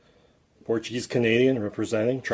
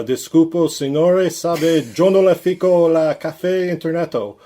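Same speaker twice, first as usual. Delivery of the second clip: higher, louder fake Spanish, slower; mock broken Spanish; 7 semitones higher, 6 dB louder, slower than usual. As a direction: ham up a tourist mangling Spanish with extra O's. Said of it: "I'd be like".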